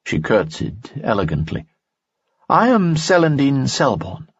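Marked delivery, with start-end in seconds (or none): 2.5-4.3 higher young woman's voice, lightly voiced; worried young woman, pitched up; Dina's voice. Dina speaks in story.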